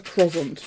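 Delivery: croissant said as KROZ-ont; KROZ-ont, mispronouncing croissant; wrong croissant. Retold or imitated. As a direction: say croissant with a buzzing z. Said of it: "that's just wrong".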